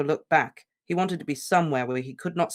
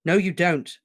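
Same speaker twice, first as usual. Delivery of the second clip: sudden loud, strong denial; forceful loud retort; 5 semitones higher, 6 dB louder than usual. Acted. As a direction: cut him off loudly. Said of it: "his voice was suddenly loud and strong".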